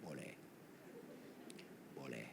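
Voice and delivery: faint, almost silent yes; barely audible. Retold or imitated. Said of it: "Saya jawab dengan apa?". (hampir tak bersuara, jauh lebih rendah)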